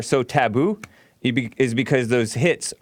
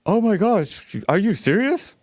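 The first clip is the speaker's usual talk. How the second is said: lightly mocking girly voice, higher pitch; a quick higher-pitched mock of the caller as a gushing woman; mocking effeminate voice; 7 semitones higher than usual. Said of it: "you can hear the woman in that guy's voice".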